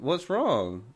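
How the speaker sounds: slow, drawn-out question; imitated unconcerned sister. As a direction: casually stretch out WRONG as the sister.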